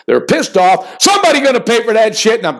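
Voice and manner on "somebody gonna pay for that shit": hyped catchphrase. Real, not acted. Host repeats his catchphrase to pump up the pick, fast. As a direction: rattle off the battle cry fast.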